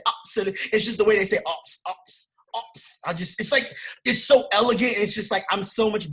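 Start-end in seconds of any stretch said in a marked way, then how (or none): 0.1-0.6 mock British absolutely. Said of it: "my favorite word to ever say".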